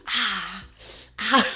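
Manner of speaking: repeated pained groan, Family Guy style; Peter Griffin hurt groan. Retold or imitated. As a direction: groan like a cartoon dad in pain. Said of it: "making a sound like that episode in Family Guy when Peter gets hurt".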